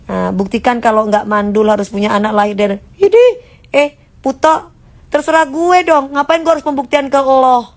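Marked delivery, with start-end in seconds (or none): 2.9-7.7 mock retort. Snapping back at critics.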